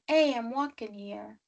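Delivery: mock New Yorker; playful New York catchphrase accent. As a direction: imitate a New York local. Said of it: "New York, I was thinking".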